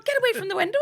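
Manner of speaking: high, loud mock-English order; bad English accent. Husband ordering wife from the window, loud English accent. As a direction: yell it in a poor London accent. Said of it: "That's a shitty accent, an English accent".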